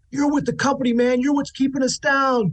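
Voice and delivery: very high, hostile, mock shouted jeering. Voicing colonists who throw snowballs at the company guy: colonists yelling. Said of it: "and yelling".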